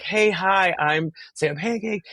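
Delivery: high-pitched chirpy hellos, retold; eager introduction. Guest meeting the actors at a party, eagerly friendly. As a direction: introduce yourself in a mock flurry of greetings.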